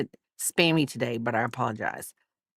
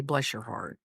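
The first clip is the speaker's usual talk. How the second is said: sugary fake-nice; 6 semitones lower, 8 dB quieter than usual. Shown as a demonstration. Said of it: "if they say it like I just said it".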